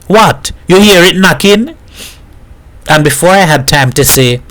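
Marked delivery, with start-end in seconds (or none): 0.1-1.7 high-pitched eager question. A narrator's reading. Baku hurries to ask about tappets, eager. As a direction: ask keenly with raised pitch. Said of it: "asked eagerly".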